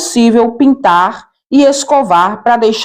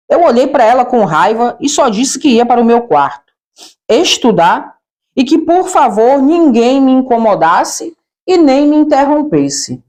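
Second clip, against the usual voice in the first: normal talking voice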